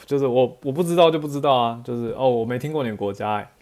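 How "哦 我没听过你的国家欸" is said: curious. Retold or imitated. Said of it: "这个态度要很小心".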